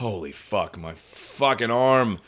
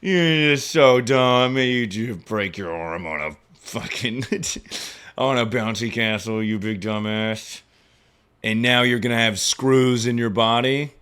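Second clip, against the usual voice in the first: self-scolding. Retold or imitated. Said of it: "I was like".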